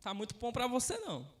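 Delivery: lightly voiced low, subdued Abraham; a hint of a reluctant elder refusing; Abraham's reply. Voicing Abraham's gentle refusal.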